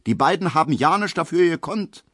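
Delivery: calling out. A narrator's reading. A soldier calls out for the couple, loud and high. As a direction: call out to take their side. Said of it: "ruft ein Soldat".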